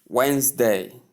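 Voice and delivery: "Wednesday" in two syllables, WENZ-day; correct pronunciation. Shown as a demonstration. Teacher introducing word number one to learners, correct pronunciation. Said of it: "Pronounce it as Wednesday".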